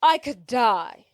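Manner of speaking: drawn-out mock despair; slow, theatrical woe; so dramatic. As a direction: stretch it out like a melodramatic dame. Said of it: "is being so dramatic".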